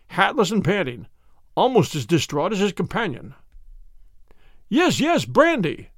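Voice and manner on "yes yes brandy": high urgent cry for brandy; urgent call, pitch up; frantic headmaster calls for brandy, higher; cried out. Acted. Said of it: "he cried".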